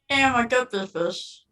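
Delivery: cheeks squished, muffled words. Pretend. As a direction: say it with cheeks squeezed in. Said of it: "squish your cheeks together".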